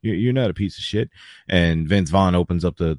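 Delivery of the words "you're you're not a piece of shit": higher-pitched, lightly voiced panicky apology; mock a bully suddenly backing down; nervous backpedalling. Caught bully apologising to the big man in the stall, nervous.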